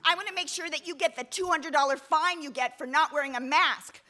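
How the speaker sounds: imitating a shrill hiker; mock screaming. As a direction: threaten to follow her, lightly voiced. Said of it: "she starts screaming at me".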